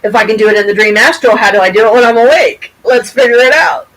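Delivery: high, excited retelling of waking up stunned; amazed wake-up cry. Retold or imitated. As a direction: burst out in disbelief, then race ahead eagerly. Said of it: "I woke up and went".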